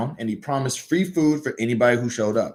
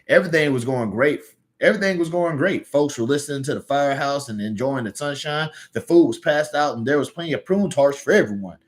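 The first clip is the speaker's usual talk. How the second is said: Southern accent. Shown as a demonstration. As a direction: let the Southern accent come through naturally. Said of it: "I wanna say it like this".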